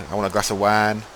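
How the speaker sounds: horrible broad Hull accent, wine as 'wahn'. Shown as a demonstration. Showing listeners how locals ask for wine, broad Hull accent. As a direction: put on a proper Hull accent with flattened vowels. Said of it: "It's a real, really horrible accent".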